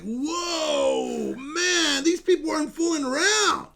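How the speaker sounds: stunned disbelief. Retold or imitated. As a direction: let the shock spill out, then slow down. His stunned reaction, retold.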